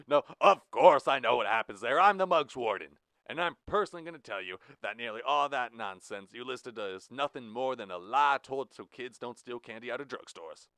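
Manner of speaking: loud, high-pitched warden scolding; gruff prison warden. Acted. Blue the warden lecturing Jack. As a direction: lay down the law as warden.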